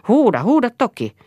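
high, loud jeering "shout it"; taunting cry. Acted. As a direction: goad her, loud and high. Eero taunts her to shout.

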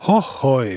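Hohoi as a sighing groan. A narrator's reading. Wife sighing over the missing boy, sighing out Hohoi. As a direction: breathe out a pious sigh. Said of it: "huokasi Eevastiinakin".

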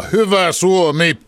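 defiant fan's shout, high, loud and drawn out; loud stadium shout. Retold or imitated. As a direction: belt it across the stands, stretching each word. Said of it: "todella lujalla äänellä huutaa".

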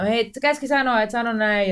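retold shout. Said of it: "ja sit mä huudan sen".

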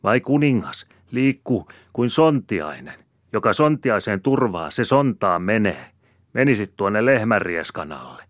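high, loud jeering tirade; squawking, scornful nagging; cackling scolding. A narrator's reading. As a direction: rail at him like an angry hen. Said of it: "Se ainoastaan säksättää".

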